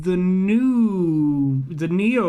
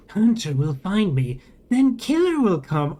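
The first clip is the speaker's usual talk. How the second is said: slow, whirring robotic drone; whining machine voice; 2 semitones higher than usual. A narrator's reading. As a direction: speak like a glitching vending machine.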